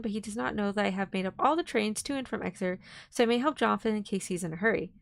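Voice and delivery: steady storybook reading voice; story narration. A narrator's reading. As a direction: read it like an audiobook. Reading Dracula aloud.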